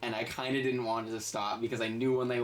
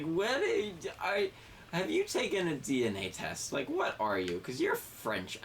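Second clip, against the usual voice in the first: put-on drunk woman. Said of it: "exactly what she said".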